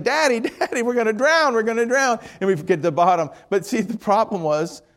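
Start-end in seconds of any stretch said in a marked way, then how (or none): 0.0-2.2 put-on high, giggly kid squealing; excited child. Little son on dad's shoulders in the pool, squealing higher. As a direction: squeal like a thrilled little boy. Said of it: "He's like".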